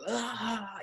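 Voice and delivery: high, drawn-out mock laugh; imitated uncontrollable laugh. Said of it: "uncontrollably laughing".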